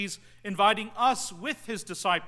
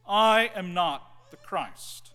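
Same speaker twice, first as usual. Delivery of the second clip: loud, slow, forceful "I am not the Christ"; loud declaration; 6 dB louder, much slower than usual. Retold or imitated. Seminary student standing before his peers, loud forceful declaration. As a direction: declare it loudly and slowly to the room. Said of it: "said publicly, loudly".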